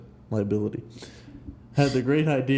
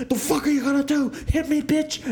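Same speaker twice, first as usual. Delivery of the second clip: high-pitched, fast imitation of an angry pedestrian; mock angry challenge; 12 semitones higher than usual. Imitating a pedestrian challenging the driver who nearly hit him, mock angry. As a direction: throw out a hammed-up taunt.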